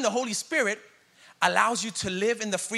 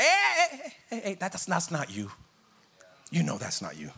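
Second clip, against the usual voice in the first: gentle correction. Retold or imitated. Holy Spirit gently correcting.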